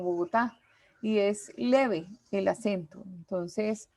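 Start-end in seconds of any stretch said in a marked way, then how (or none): 0.0-0.6 Bogotá stressed on the final TÁ; Bogotá with the weight on its last syllable; correct stress on last syllable. Shown as a demonstration.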